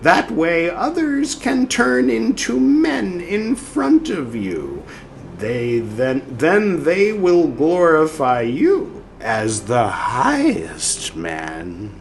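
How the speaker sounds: slow, solemn pronouncement; quoted spirit voice. Acted. Spirit instructing Carl, slow and solemn. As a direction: intone each phrase slowly.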